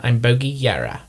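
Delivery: lightly voiced character, practised; a hint of the character's accent; Bogey Yara. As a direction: settle back into the character. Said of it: "You have to get it back".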